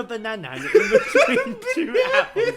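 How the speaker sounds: words squeezed through laughter; breaking up laughing mid-read. Real, not acted.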